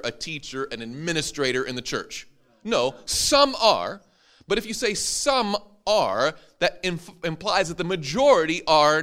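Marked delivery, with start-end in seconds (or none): 2.6-6.3 "some" stressed higher and slow. Shown as a demonstration. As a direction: hit "some" hard, slowly. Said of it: "Only some are".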